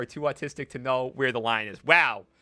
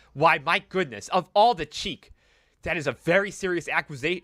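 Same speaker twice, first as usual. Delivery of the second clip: put-on indignant old lady; 3 semitones higher, 4 dB louder than usual. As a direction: huff at the insult. Ethel indignant about husband.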